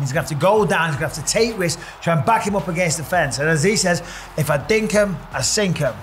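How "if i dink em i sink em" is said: put-on half-hearted stab at an Australian accent; badly faked Aussie accent, slipping off target; awful Australian accent. Pundit quoting the Australian fighter's catchphrase, poor Australian accent. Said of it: "that's my awful Australian accent".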